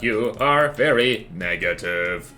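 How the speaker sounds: cold dystopian robot manager; deadpan machine boss issuing orders. Acted. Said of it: "I am a robot".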